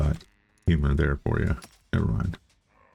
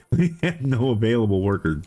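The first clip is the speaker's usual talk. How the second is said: higher, laughing through the words; 5 semitones higher than usual. Real, not acted. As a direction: start with a laugh and talk through it. Laughs while stating the problem.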